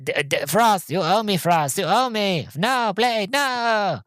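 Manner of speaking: high, rising mock panic; mock pleading. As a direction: plead like a cornered vampire, hammed-up. Vampire pleading, mimicked.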